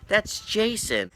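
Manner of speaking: high, drawn-out realisation; slow and high, as the penny drops; retold astonishment. Teller recognising a friend behind the prank, astonished.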